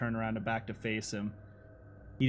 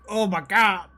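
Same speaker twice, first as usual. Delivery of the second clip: mock groan; 8 semitones higher, 8 dB louder than usual. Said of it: "laying there on his back like".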